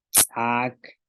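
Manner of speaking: "tsak" with ejective ts popped before the vowel; glottalised TS. Shown as a demonstration. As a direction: glottal catch after the ts in "tsak". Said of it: "con la glotal".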